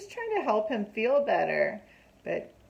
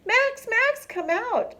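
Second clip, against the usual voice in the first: a loud, high shout to his friend; yelling; 14 semitones higher, 5 dB louder, slower than usual. A narrator's reading. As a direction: holler for Max outside the dam. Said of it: "he yelled".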